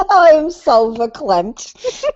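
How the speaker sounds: high, very slow overcome swoon; milk it like a fainting heroine; hammed-up emotional swoon; mock verklempt. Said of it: "I'm all verklempt".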